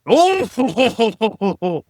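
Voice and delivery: high, loud announcer exclaim; a touch of 1950s broadcaster; old-timey announcer. Pretend. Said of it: "old-timey college football announcer".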